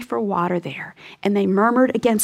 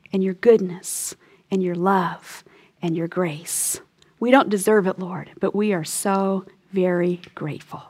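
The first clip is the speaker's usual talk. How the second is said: closing prayer; 2 semitones lower than usual. Acted. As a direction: pray it gently and humbly to God.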